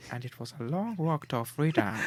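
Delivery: lightly voiced South African statesman impression; a hint of a solemn African elder; Nelson Mandela. Asked by co-host for a Mandela, light impression. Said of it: "Can you do a Nelson Mandela".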